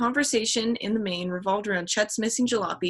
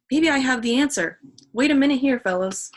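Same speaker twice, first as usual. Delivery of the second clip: louder, higher eager burst; excited; 5 semitones higher, 4 dB louder than usual. Acted. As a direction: blurt it out, sudden idea. Chet suddenly thinks of answer.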